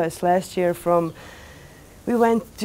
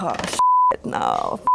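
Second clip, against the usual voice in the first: startled panic; slower than usual. Retold or imitated. Panic when asked to play.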